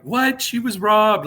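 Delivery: high-pitched mock disbelief; incredulous fans. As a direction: protest it high, like an indignant fan. Acting out outraged fans online.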